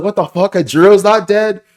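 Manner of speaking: loud, high-pitched mock outrage; shocked disbelief. Reviewer retelling the reaction to Kanjuro surviving, shocked. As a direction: act out a stunned, incredulous outburst.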